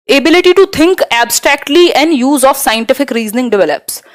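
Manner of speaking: each word of the English option spelled out slowly; slow option read. Acted. Teacher reads answer option one to students, slow and careful. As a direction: read it out like dictation.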